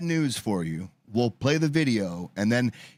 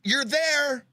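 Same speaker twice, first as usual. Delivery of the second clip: excited hints; 10 semitones higher than usual. Real, not acted. Guessing game hints.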